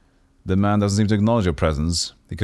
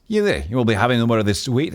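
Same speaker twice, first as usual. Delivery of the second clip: mild mock snarl; 3 semitones higher, faster than usual. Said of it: "Anna snarls".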